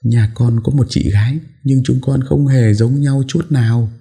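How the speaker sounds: quick, earnest denial; a lightly voiced girl answering fast; hurried reply. A narrator's reading. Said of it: "vội nói".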